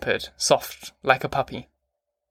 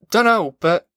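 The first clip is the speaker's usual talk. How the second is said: higher, louder helpless outburst; raised voice; 6 semitones higher, 4 dB louder than usual. Acted. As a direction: blurt it out, distressed. John's desperate outburst.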